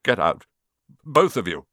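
a slightly croaky order, broken in two; croak. A narrator's reading. Shaken uncle sending the boys out, croaking. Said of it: "croaked Uncle Vernon".

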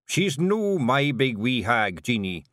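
a stubborn Scots chieftain, heavy-hearted; lightly voiced gloomy Scottish pixie; Rob Anybody, gloomy Feegle chief.

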